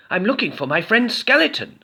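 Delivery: hopeful goblin asking a stranger. A narrator's reading. Goblin asking the farmer, high goblin voice. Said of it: "said Goblin".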